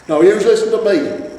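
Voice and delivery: loud, high stern start; stern troll. A narrator's reading. Troll husband rounding on his wife, loud. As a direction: lay down the law.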